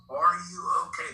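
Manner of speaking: mild imitation of yelling over water; urgent check-in call, partly held back. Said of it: "now getting louder and louder".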